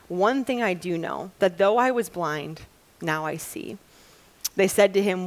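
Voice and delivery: measured Bible reading to a congregation; scripture reading. A narrator's reading. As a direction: read the passage aloud with acted questions. Reads scripture aloud.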